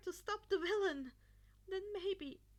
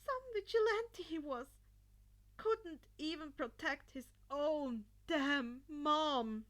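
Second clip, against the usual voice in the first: louder, slow bitter self-scorn; bitter self-reproach; 7 dB louder than usual. A narrator's reading. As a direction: spit the blame at yourself slowly.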